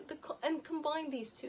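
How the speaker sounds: ordinary delivery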